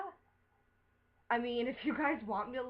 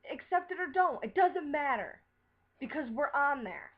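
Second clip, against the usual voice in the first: higher and louder, fed up and fierce; angry outburst; 4 semitones higher, 4 dB louder than usual. Real, not acted. Ranting at the friends who bashed Dallas, angry and raised. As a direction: throw it back at them, done arguing.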